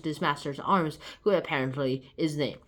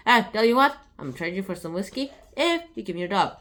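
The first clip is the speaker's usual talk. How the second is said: lightly voiced drunk, a bit louder at first; drunken speech; 3 dB louder than usual. Beauty offering whiskey for the dog, mild drunk voice. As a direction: slur it a touch like a drunk. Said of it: "In his drunken tongue".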